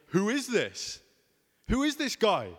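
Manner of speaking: high, stirred-up "who is this guy?"; curious Jerusalem crowd stirred up by Jesus; excited crowd. Retold or imitated. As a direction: voice the buzzing crowd. Crowd quoted asking.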